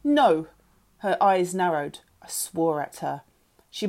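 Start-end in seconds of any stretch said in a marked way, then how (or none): 0.0-0.5 loud, raised one-word refusal; angry refusal. A narrator's reading. Mother refusing to leave girl's room, angry. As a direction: refuse hard and loudly. Annie refuses in shouting row.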